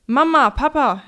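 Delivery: put-on high, loud child's call. A narrator's reading. Boy calling to his parents from the hallway, calling out. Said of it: "hörte Lea ihn im Flur rufen".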